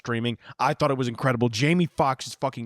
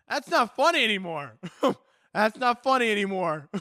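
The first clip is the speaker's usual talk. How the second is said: 1 laughing; 5 semitones higher than usual. Real, not acted. Laughing while repeating.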